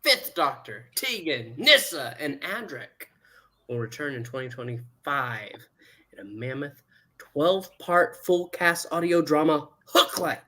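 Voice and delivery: announcer reading out a cast list with swooping names; news read. Real, not acted. Host announces an audio drama to listeners, news read. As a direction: read the announcement with deliberate pauses and swung pitch.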